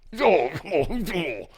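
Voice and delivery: drawn-out goofy "oh" laugh; goofy laughing noise. Pretend. Goofy noise after butthole joke.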